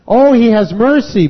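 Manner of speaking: ordinary talk, nothing marked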